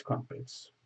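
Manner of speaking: whispered "crumpets", breathy and hushed. Pretend. Chanting crumpets, then whispering.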